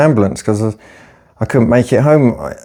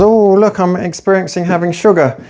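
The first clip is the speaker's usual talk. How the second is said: mock excited dieter; 4 semitones higher than usual. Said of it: "imagined dieter's thought".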